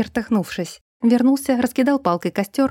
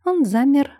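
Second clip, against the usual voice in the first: ordinary delivery, nothing marked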